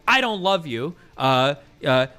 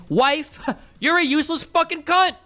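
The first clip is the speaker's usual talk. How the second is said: hammed-up nasty jab, higher and laughing through it; mock abusive insult; 6 semitones higher, slower than usual. Shown as a demonstration. Debater demos abusive tone to his co-host, mock harsh and laughing. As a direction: spit "Wife," out as a sneer, then break into a laugh. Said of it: "versus saying".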